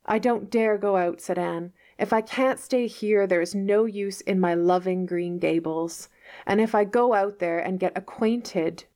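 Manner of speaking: lightly voiced, tragic little girl; martyr's tone. Anne to Marilla, a lightly voiced martyr's lament. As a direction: sigh it out as noble sacrifice. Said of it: "in the tone of a martyr".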